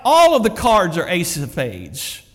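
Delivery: emphatic, slow heckle; parrot yelling out. Retold or imitated. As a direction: call out the trick, drawn out. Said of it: "the parrot would yell out".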